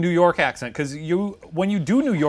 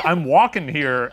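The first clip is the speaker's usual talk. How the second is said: loud, slow imitation of a film actor; Christopher Walken; 7 dB louder, slower than usual. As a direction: mimic the botched New York shout. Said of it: "He sounded like Christopher Walken".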